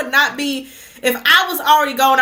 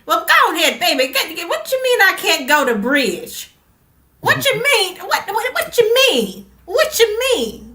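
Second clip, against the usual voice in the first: indignant grandma, pitch climbing higher on each what you mean; playing an outraged grandma who won't be told she can't go to bridge; grandma cutting up; 3 semitones higher than usual. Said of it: "my grandma would be cutting up".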